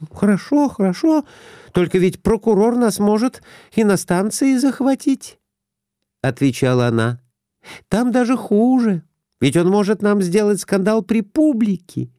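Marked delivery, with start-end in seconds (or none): 0.1-5.4 high, anxious wife voice; wife's voice. A narrator's reading. 7.9-12.1 high, anxious wife voice; wife's voice. A narrator's reading. Wife continues.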